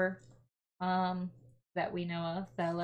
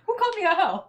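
loud, high indignant yell; playful fake outrage at the table; loud mock outrage; 11 semitones higher, 10 dB louder, faster than usual. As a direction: bellow it, pretending offence. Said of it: "You just hear me say that really loud".

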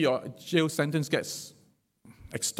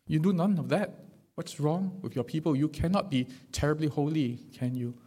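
smug pious mockery. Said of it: "It's like saying".

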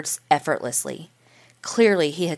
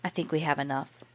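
choked up; 8 dB quieter than usual. A narrator's reading. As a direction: softly, voice catching with tears. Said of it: "her voice choked".

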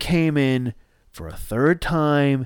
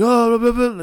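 high, loud nonsense yell; mock scream, pitched way up; imitating screaming kids; 8 semitones higher, 5 dB louder than usual. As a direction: mimic rowdy kids yelling gibberish. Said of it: "screaming some shit".

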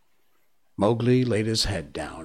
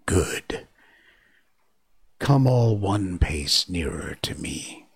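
hissing snake command; slower than usual. Acted. Kaa commands hypnotized monkeys.

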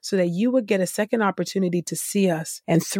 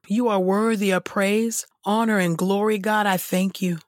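earnest prayer voice, addressing God directly; spoken prayer. Acted. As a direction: pray aloud with devotion, lingering on "oh God".

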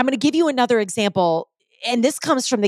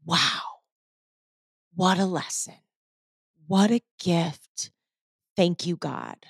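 quiet grateful awe; 2 semitones lower, 3 dB quieter, slower than usual. Retold or imitated. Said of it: "I was like".

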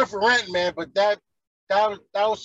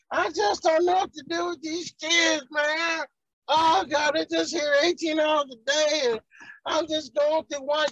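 higher, mock-whiny overwhelmed parent; mock whining parent; 5 semitones higher than usual. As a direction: imitate a tired parent complaining about the kids. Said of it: "talking about".

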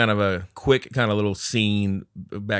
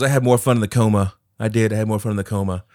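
retold outburst; 7 dB louder than usual. Retelling Steph's outburst.

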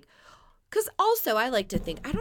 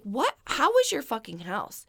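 incredulous; 5 semitones higher than usual. Retold or imitated. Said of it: "I was like".

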